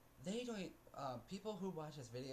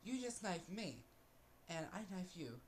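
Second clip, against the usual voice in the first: retold yell; 5 semitones higher than usual. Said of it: "I'm like".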